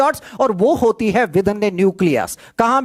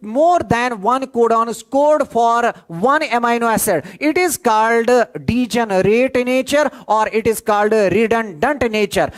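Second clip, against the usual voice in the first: slow, spelled-out dictation pace; much slower than usual. Shown as a demonstration. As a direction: give the definition word by word for notes. Teacher dictates definition slowly.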